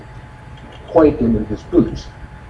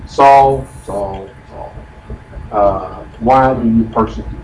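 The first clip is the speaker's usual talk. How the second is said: the first Saul called out louder as a displeased warning; name him like a parent about to scold; stern warning; 4 dB louder, slower than usual. Shown as a demonstration. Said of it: "I'm getting ready to say something now that I don't like".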